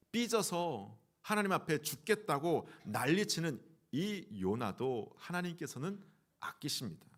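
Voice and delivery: usual speaking voice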